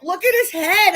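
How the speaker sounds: high, loud retold insistence; acted urgent plea. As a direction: press the desk staff. Pleading with airline desk staff.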